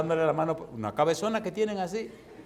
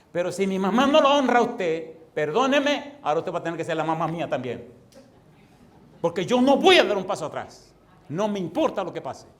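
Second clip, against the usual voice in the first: louder, pleading cry to God; fervent prayer; 2 semitones higher, 7 dB louder than usual. Retold or imitated. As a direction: pray it out with loud resolve. (oración ferviente y en voz alta)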